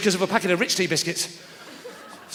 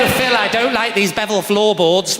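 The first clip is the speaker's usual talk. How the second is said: prissy client; slower than usual. Retold or imitated.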